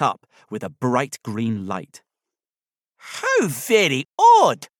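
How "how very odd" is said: high, slow, loud Scottish voice; Scottish-accented teddy bear, pitched well up; soft Scottish accent. A narrator's reading. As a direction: draw it out in a lilting Scottish accent. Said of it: "a voice with a soft Scottish accent".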